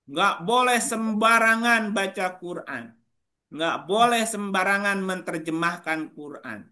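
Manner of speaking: chanted-out slogan, stretched on "boleh"; mock prohibition. Teacher parodying colonial slogans to the class, mock warning. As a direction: imitate a rule-giver repeating a ban.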